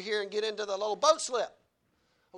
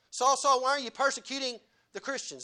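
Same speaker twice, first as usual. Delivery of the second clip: calling loudly; 5 semitones higher, 4 dB louder than usual. Acted. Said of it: "Is that what he says?".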